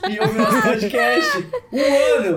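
high, loud celebratory shout; excited cheering. Pretend. Player plugging the podcast's first year, loud high excitement. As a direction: burst out in a hyped cheer.

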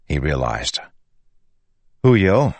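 usual speaking voice

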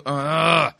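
drawn-out groan of disbelief; exasperated groan. Real, not acted. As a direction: break off into a long groan. Commentator groans at the announcement.

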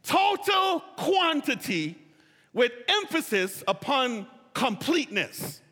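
preacher's slow emphatic shout; emphatic proclamation. Real, not acted. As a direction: ring out each word. Defines pleroma with emphasis.

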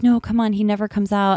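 lightly acted, insistent coaxing; coaxing aunt. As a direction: act out an aunt talking someone round. Acting out aunt coaxing her.

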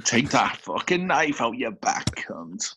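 hushed, breathy aside; mock whisper. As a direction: hiss it behind his back like a stage whisper. Snide aside about Nick's enemies.

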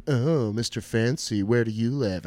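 teasing, drawn-out mock awe; lightly mocking, stretched-out jibe; mocking classmates. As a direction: tease someone for being fancy. Classmates mocking the rich kid.

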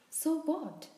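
high, loud, defiant shout. A narrator's reading. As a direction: shout back in exasperation. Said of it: "Harry shouted".

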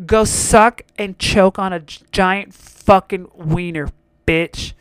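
slow insult. Real, not acted. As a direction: spell each word out to the customer. Cursing the customer out slowly.

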